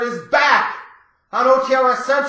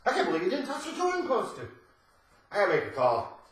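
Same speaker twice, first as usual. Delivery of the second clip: ordinary talk, nothing marked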